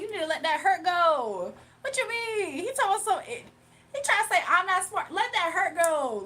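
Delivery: loud, high, heated scolding; loudly scolding a commenter to let it go; loud roast. Real, not acted. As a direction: tell him off, loud and high.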